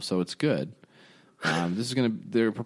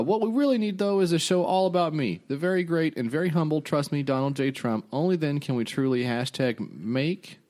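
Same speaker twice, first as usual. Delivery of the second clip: high, blustery cartoon politician; cartoon Trump voice; 6 semitones higher than usual. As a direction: puff it up like a bragging cartoon president. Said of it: "this is in the voice of a cartoon Trump".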